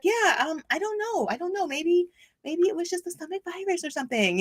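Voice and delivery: a hint of a clueless doctor brushing it off; mock doctor. Doctor quoted, unsure.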